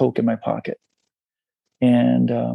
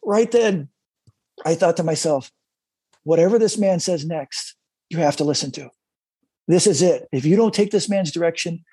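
emotional; 2 semitones higher than usual. Real, not acted. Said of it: "I tear up every time".

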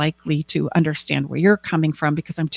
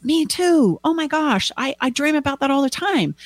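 high, gushing excitement; acted eager me-too, pitched up; thrilled agreement; 10 semitones higher than usual. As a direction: jump in delighted to share the dream. Acted thrilled shared-dream reply.

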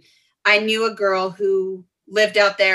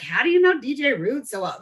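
higher-pitched mock fan awe; fangirling; 5 semitones higher than usual. Bar-goers asking how she knows the DJ, fangirling. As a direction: gush like an impressed fan.

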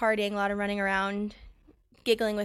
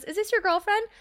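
nosy lady voice; 9 semitones higher, 3 dB louder than usual. Retold or imitated. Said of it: "looks over at my guy friend and goes".

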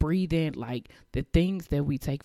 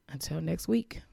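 breathy, hushed goodbye, rising at the end; 4 semitones higher than usual. Real, not acted. Host saying goodbye to listeners, hushed. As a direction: whisper a fond farewell. Signing off the podcast softly.

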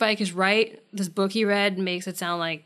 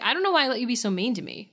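rushed whine; 3 semitones higher, faster than usual. Retold or imitated. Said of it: "And she's like".

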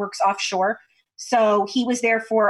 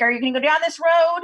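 higher-pitched, lightly imitated Louisiana accent; 5 semitones higher, faster than usual. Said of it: "he's talking in his Louisiana accent".

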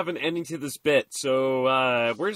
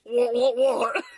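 mock British; 5 semitones higher, slower than usual. Echoing mock British exclamations.

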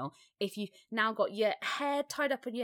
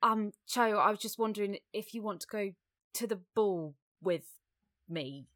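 a hint of a shy schoolboy asking someone out; lightly voiced Harry, nervous invitation; Daniel Radcliffe as Harry; 4 semitones higher, 4 dB louder than usual. Harry asking Cho to the ball, lightly voiced shy ask. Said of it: "can I do Daniel Radcliffe?".

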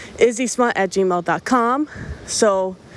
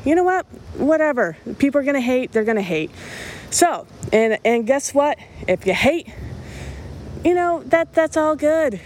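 excited defiance; 5 semitones higher than usual. Real, not acted. Host defiantly dares the haters.

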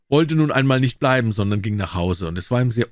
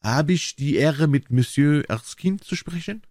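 put-on higher, slow French-accented courtesy; old gentleman's French accent, measured and higher; light French accent; 5 semitones higher, slower than usual. A narrator's reading. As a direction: ask slowly in a French accent. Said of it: "sagte mit leicht französischem Akzent".

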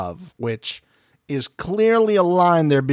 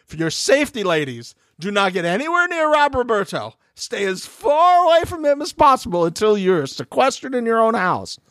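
higher, urgent public warning voice; mock announcement; 8 semitones higher than usual. Warning the single women about Rob, mock-urgent announcer voice. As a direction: read it like an official safety alert. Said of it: "I was like".

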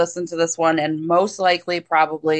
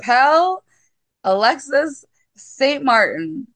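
reluctant French line; 5 semitones higher than usual. Acted. Gives in, mimics his French line.

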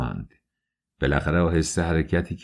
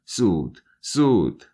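urgent command; slower than usual. Acted. Svidrigailov, facing the window, orders Dunya to leave fast. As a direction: urge her out without turning round. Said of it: "این کلمهٔ زود با چنان لحنی ادا شد".

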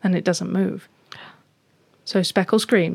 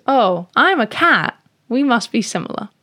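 lightly voiced little cat, pitched up; a higher, childlike kitty voice; naive cat; 4 semitones higher, 5 dB louder than usual. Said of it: "And Speckle goes".

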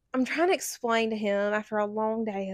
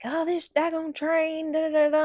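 grumbling dad; 6 semitones higher than usual. Retold or imitated. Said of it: "he was like".

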